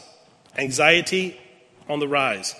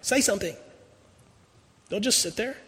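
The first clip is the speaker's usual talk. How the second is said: high, sharp command that drops away; angry demand; 7 semitones higher than usual. Retold or imitated. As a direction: insist he say something, fading. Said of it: "with angry eyes and says".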